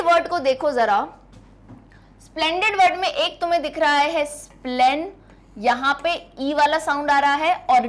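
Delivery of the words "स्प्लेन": first syllable स्प्लेन said on its own. Shown as a demonstration. Teacher counting syllables for students, syllable by syllable. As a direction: isolate स्प्लेन as one clear beat. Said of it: "तो यानी one और टू".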